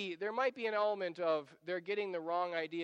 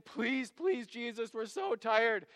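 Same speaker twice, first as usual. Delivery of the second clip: weary, slowed pleading; acted plea from tired disciples; 3 semitones higher, slower than usual. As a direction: beg as if worn out. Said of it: "standing there in this holy huddle saying".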